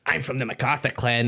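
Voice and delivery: imitated American old lady; mimicked New York lady; American accent. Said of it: "another wee one was like".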